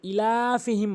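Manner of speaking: ইলাফিহিম with a short opening ই; common mispronunciation. Shown as a demonstration. Teacher copies most people's mistake, short ই in ইলাফিহিম. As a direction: start ইলাফিহিম quickly, without stretching the ই. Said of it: "যে ভুলটি অধিকাংশ লোক করে".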